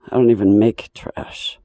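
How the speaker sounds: voiceless, breathy whisper; barely any voice, just air; raspy whisper. Real, not acted. A hurt singer whispering about her neighbour.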